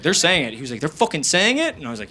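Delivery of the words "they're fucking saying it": incredulous question, rising at the end; retold indignant query, pitch climbing on IT; mock angry disbelief. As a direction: imitate an offended friend checking the news. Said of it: "He was angry".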